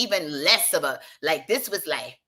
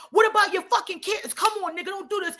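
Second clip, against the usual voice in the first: high pleading voice, pitched way up; 9 semitones higher than usual. Retold or imitated. Begging friends to think of kids, high pleading. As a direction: beg them to stop. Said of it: "I'm like".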